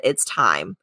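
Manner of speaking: low, hushed ghost voice; ghost's line. Retold or imitated. Storyteller voicing the dead grandmother, low and hushed.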